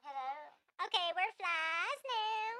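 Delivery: slow, buzzy little fly voice. Acted. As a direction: play a fly girl, drawn out. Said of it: "let's do it in our fly voices".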